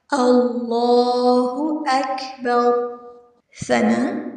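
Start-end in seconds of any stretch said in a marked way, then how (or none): 0.1-3.0 slow, with the ل in اللہ said thick and full; slow Quranic recitation of اللہ اکبر; heavy Allah. Shown as a demonstration. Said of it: "لفظ اللہ کو ہم نے موٹا پڑھنا ہے".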